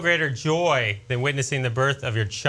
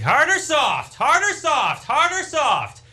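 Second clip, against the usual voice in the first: nagging wife; 12 semitones higher, slower than usual. Retold or imitated. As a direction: pester him over and over. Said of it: "she's like".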